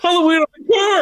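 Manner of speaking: gleeful threat. Pretend. Joins the threat to the beers.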